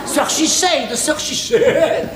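slow, savoured mock English accent. Boss showing off his English accent to his servants. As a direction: roll it out like a grand English lord. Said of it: "Je progresse, mon accent".

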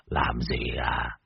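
low, slow playful threat; sly menace. A narrator's reading. Môn Phọt answers the ghost, low sly menace. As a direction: toy with it. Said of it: "cười gian".

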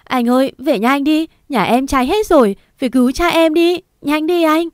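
put-on girl begging through tears; choked crying plea. A narrator's reading. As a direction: beg him through tears to drive home. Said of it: "khóc đến nghẹn giọng".

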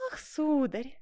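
lightly coy little exclamation; coquettish cry. Acted. Seamstress startled by her lover's arrival, coquettish. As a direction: act mildly startled, flirtatiously. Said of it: "кокетливо вскрикнула она".

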